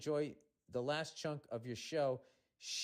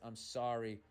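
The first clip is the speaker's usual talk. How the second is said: put-on sulky toddler apology; 4 semitones lower than usual. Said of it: "like a toddler who was forced to apologize".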